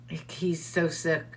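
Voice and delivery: hushed whisper, almost no voice. Real, not acted. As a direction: drop to a whisper as if sharing bad news. Sad news about a sick inmate.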